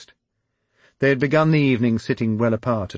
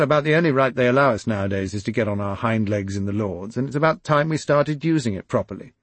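raised, louder voice of an aggrieved lord; aggrieved landowner gets louder until he hits parasite; indignant aristocrat rant; 5 semitones higher, 5 dB louder than usual. Acted. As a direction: rant against the protesters, building to outrage. Quillington warming to the idea.

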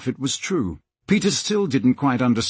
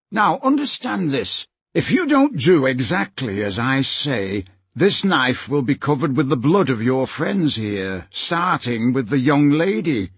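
lightly voiced menacing villain; threatening villain. Slank threatens Peter's friends, mildly menacing villain. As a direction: lay down the threat firmly.

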